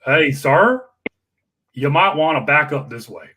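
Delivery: a hint of a Georgia drawl, lightly voiced; calm Georgia drawl; understated polite Georgia drawl. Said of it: "in the Georgia drawl".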